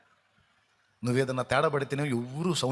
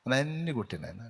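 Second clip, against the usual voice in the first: mock humble plea; 2 semitones lower, 3 dB quieter than usual. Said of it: "ఎంత వినయంగా అడుగుతున్నావు".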